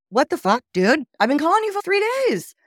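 high, loud exasperated yell; retold angry outburst. She confronts the boyfriend who vanished, loud exasperated yelling. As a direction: let the three days of worry burst out.

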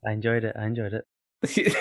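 understated, faintly contemptuous approval; veiled contempt. Real, not acted. Co-host reacting to the host's ad-libbed intro, veiled contempt. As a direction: approve with thinly veiled disdain. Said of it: "a veiled contempt in your tone of voice".

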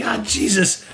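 high scoffing goblin voice; mocking goblin. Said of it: "He's like".

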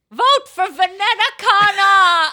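high, loud and slow slogan; hammed-up campaign chant; mock campaign shout. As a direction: bellow it like a lawn sign. Reading lawn sign aloud.

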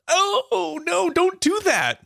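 high, slow scolding oh no; playful high-pitched dismay; mock alarm. Real, not acted. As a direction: chide a friend in a squeaky alarmed voice. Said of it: "should Kyle be doing that with his teeth".

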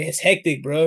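mock Lebanese-Aussie slang accent; Lebanese Australian accent. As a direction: imitate a Lebanese-Australian bro. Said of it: "were Lebanese, and, like, they would be like".

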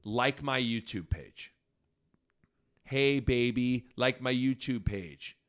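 slow, drawn-out mock American YouTuber accent; imitated American accent. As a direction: stretch it out like a fake American influencer. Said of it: "do an impression of an American".

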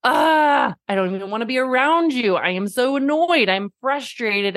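an imitated parent at the end of her rope; exasperated outburst. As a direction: blurt it out, fed up with the kid. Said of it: "then I get like".

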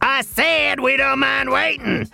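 insistent repeat. Acted. Host cutting off his guest's objection, insistent. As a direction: press the point over an objection.

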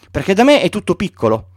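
put-on a small boy insisting on his sheep; gently voiced child asking for a sheep; Little Prince.

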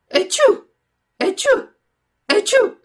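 three big, high, loud sneezes. A narrator's reading. Puppeteer sneezes, moved to pity, with loud sneezes. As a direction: sneeze explosively three times. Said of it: "e fece altri tre starnuti".

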